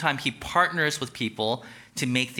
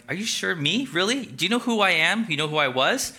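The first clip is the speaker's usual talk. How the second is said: higher, pleading questions; doubtful Moses; 5 semitones higher than usual. Acted. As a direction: protest nervously.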